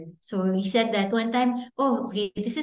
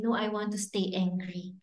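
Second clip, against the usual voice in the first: put-on child's protest; 7 dB quieter than usual. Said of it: "He'll say".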